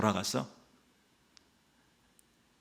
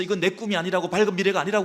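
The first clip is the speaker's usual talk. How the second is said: high, loud indignant complaining; mock protest; 8 semitones higher, 4 dB louder, faster than usual. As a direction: whine like someone insulted by their lot. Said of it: "막 항변하면서". (높고 큰 소리로 억울하게 항변하듯)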